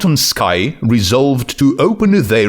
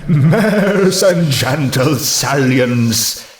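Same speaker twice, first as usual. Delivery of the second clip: mild mock shout; 3 semitones higher, much slower than usual. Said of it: "Autumn Sky shouted".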